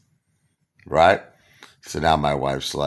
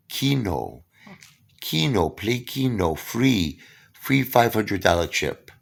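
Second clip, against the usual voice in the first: casino hustler; 5 semitones higher, slower than usual. Retold or imitated. Casino guy pitching Keno.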